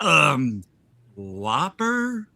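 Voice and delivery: put-on confused drunk ordering, rising question; drunk customer. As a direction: mimic a baffled drunk at the drive-thru. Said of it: "'Cause they were so drunk".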